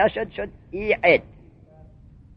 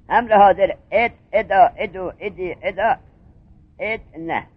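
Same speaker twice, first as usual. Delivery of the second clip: conjugation recital; 4 dB louder, slower than usual. Shown as a demonstration. Recites the verb conjugation table.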